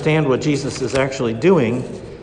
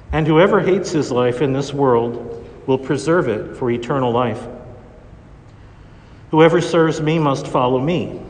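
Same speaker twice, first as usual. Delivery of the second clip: Gospel reading. Acted. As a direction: proclaim it from the ambo. Proclaims the Gospel at Mass.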